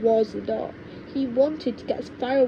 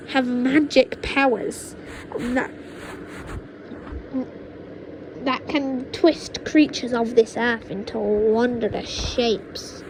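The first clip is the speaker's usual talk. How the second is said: witch grandma boasting. Acted. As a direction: savour each dark word. Witch grandma revealing powers.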